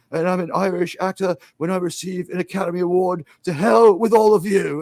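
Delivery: mount the grievance, then burst out at the end; Richard Harris. Retold or imitated. Actor correcting the Academy Awards crowd, mock indignant speech. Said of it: "And he's like".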